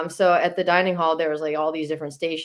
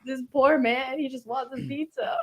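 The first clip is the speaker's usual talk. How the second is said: laughing plea; 6 semitones higher, faster than usual. Retold or imitated. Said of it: "laughing, pleading for the pizza".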